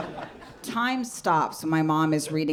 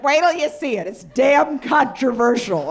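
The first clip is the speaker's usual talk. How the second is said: gushing mom voice; 7 semitones higher, 6 dB louder than usual. Retold or imitated. Daughter mimics her mom fawning over a cab driver's name, gushing high. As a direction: savor the name like a fine wine, way up high. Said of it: "She's like".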